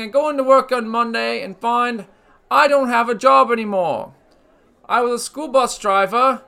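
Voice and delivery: a hammed-up British accent, lightly done; put-on British accent. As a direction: play a cheeky British host with a put-on British accent. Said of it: "That's a nice accent you have".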